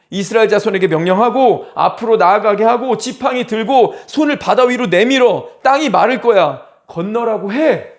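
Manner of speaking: forceful, insistent run of orders; imitated urgent command; commanding divine voice. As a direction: urge them into action as a commanding God. God orders Moses to act.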